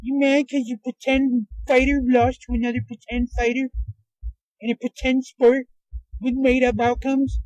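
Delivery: high, put-on taunting voice; mocking heckler. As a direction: jeer like a scornful internet troll. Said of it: "somebody's gonna sit there and be like".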